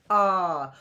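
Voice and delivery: low, sad little sigh of ah; mild sad interjection demo. Shown as a demonstration. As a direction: sound let down. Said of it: "Or sad".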